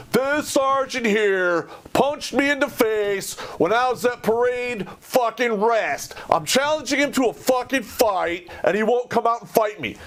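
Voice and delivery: high, slow, furious shout to the room; high, outraged public callout. Retold or imitated. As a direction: announce the challenge to everyone, enraged. Announcing challenge to whole restaurant.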